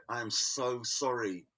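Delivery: slow, soft, a touch tearful sorry; a hint of crying, drawn out; mock crying apology. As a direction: imitate her tearful apology, slowly. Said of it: "started crying and go".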